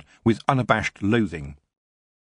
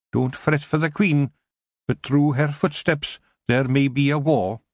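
much higher, Scottish brogue, gruff little Feegle; a wee Scottish warrior scoffing at the elf; tiny Scottish Feegle grumbling about elves; 6 semitones higher than usual. A narrator's reading. Kelder warns gravely.

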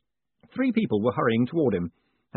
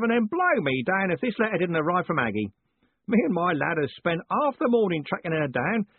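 put-on old Parker roaring; 8 semitones higher than usual. A narrator's reading. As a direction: roar it like a deaf old soldier.

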